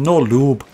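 "lube" in a slipped accent; odd accent on lube. Real, not acted. Taunting an opponent with fist and no lube, "lube" oddly accented. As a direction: let the put-on accent slip on "lube". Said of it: "I don't know why I said lube like that".

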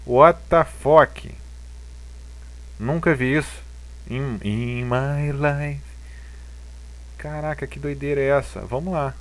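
high-pitched, disbelieving surprise; baffled. Real, not acted. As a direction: react like you can't believe it. Baffled by a strange chart.

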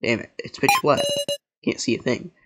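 deadpan read of game dialogue; monotone reading. Acted. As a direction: rattle off the character's lines without drama. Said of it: "this in a monotone voice".

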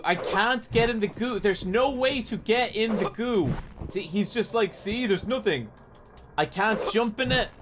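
frustrated complaining. Real, not acted. Streamer stuck, complaining to chat.

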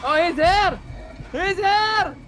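terrified screaming. Real, not acted. Chaser appears, screaming.

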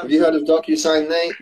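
quick, bright sales pitch tone; lightly voiced advert opener; mock commercial read. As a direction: sell it like a cheesy ad. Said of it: "I was trying to do a little DocuSign commercial".

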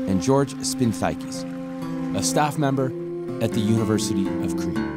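measured voice-over with deliberate pauses between phrases; polished, scripted voice-over; documentary narration. A narrator's reading. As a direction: introduce the team like a documentary narrator.

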